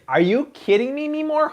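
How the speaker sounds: high-pitched squeal of delight; gushy, high-voiced adoration. Real, not acted. Gushing over the baby arriving.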